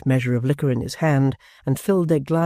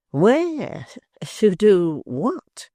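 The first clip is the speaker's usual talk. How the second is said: high, alarmed questions, slow on to do what; sharp challenge; 7 semitones higher, 4 dB louder, much slower than usual. A narrator's reading. Gashford blocks the door and challenges Hugh, sharp and high. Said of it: "said Gashford".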